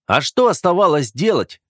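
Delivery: a touch of a heated outburst; flaring up. Acted. Brother flaring up at his sister, mildly heated. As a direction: snap back, stung. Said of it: "вспылил Оливер".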